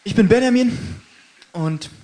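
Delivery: mouth full. Real, not acted. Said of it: "mit vollem Mund spricht man nicht".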